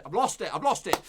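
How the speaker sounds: loud, repeated exasperated cry; exasperated outburst. Real, not acted. Host losing the page on a stupid computer, exasperated and loud. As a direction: raise your voice in frustration. Computer fails during live show.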